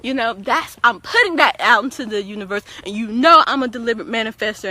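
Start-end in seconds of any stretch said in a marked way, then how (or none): 2.9-4.7 confident declaration. Shown as a demonstration. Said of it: "you gotta say it like that".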